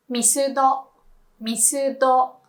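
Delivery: Misudo in even Japanese syllables, short final do; Misudo, crisp Japanese vowels; Japanese short name. Shown as a demonstration. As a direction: say Misudo as a native speaker in Japan would. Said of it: "definitely call Mister Donut Misudo".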